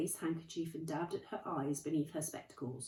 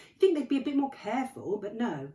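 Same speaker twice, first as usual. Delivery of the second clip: stern McGonagall; 7 semitones higher, 11 dB louder than usual. Acted. McGonagall voiced, tutting at carelessness.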